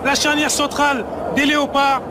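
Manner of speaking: high, lifted equaliser call; excited sports commentary. Real, not acted. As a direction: pitch it up with delight at the goal.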